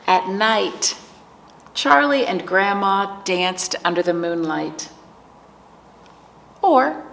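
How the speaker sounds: slow, measured storytime reading; picture book narration. A narrator's reading. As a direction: read it to preschoolers, lingering on key words. Reads picture book to children.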